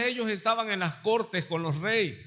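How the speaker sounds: ordinary talk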